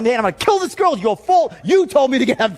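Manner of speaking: high, agitated mock rant; acted-out blaming outburst; freaking out. Man ranting to his aunt about the caller, freaking out. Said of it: "Now I'm freaking out".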